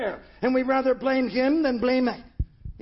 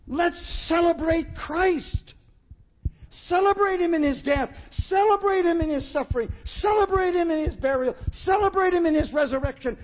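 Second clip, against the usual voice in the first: rising exhortation; 3 semitones higher than usual. Real, not acted. Building celebratory litany.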